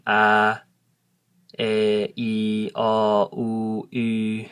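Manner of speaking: A E I O U, each said separately and clearly; careful teacher's vowel drill; Hmong vowels. Shown as a demonstration. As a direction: read the vowel chart aloud carefully. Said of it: "so I'll say 'em again".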